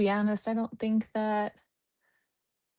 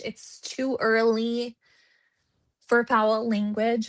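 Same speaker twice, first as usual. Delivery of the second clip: slow, deliberate restatement; slower than usual. Shown as a demonstration. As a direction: spell it out slowly like a lady. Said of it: "Talk like a lady today".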